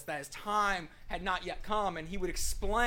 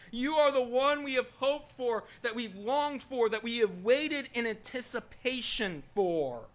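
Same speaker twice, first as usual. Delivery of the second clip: Peter, fervent declaration; 2 semitones higher, 3 dB louder than usual. Acted. Peter eagerly answering Jesus, fervent building declaration. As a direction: pile up the titles with rising conviction. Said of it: "He's chomping at the bit to give the answer".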